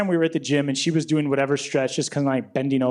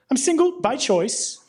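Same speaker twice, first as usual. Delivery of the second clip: mock proud; 9 semitones higher, slower than usual.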